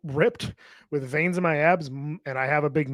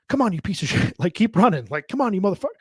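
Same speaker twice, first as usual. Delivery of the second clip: higher, barking abuse with a laugh; harsh drill-sergeant coaching; 5 semitones higher than usual. Retold or imitated. Husband mock-yelling insults at his running wife. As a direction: push her like a brutal trainer. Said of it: "she doesn't like the".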